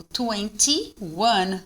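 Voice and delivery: "twenty-one" with a distinct "tee" before "one"; "twenty-one" in separated, careful syllables; marked TY. Shown as a demonstration. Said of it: "ó, tá marcado".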